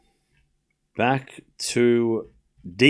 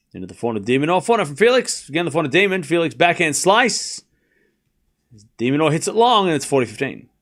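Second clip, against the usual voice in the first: play-by-play; 2 semitones higher than usual. Acted. Calling the live rally for listeners, play-by-play. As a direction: call the rally as it happens.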